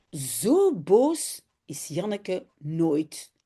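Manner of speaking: put-on lively children's story reading in Dutch, voices for the kids; story narration. A narrator's reading. Teacher reads a Dutch story to her class, lively and clear. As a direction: read it aloud like to a class of children.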